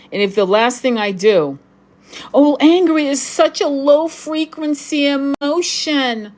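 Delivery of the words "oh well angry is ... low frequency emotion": high, affected mock-quote voice; mocking critic. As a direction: parody a sanctimonious objector in a much higher pitch. Mocks a spiritual critic's objection.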